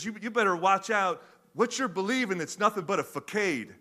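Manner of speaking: first casual pass at the movie line; Kevin Hart first read. Retold or imitated. Kevin Hart's first read-through at the table, lightly voiced. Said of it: "he says".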